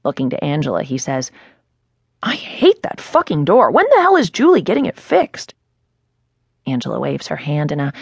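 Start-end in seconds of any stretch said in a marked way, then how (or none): 2.2-5.5 irritated rant. Acted. Annoyed at the crashing door.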